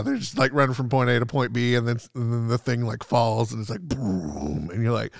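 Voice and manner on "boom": low, drawn-out boom; imitated boom. Describing a movie explosion, imitated boom. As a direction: mimic a deep rumbling crash.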